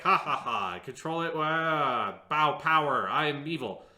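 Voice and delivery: laughing, hammed-up villain with a light laugh; lightly voiced villain gloating over the vial; mock evil general. Friend retelling the general's gloating, lightly mocking. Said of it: "And the general laughs".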